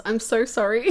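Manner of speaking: low apology with a laugh in it; sheepish laughing sorry. Real, not acted. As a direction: giggle through the sorry.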